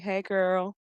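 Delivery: high, level singsong hello; mock chummy greeting. Voices the other character greeting back.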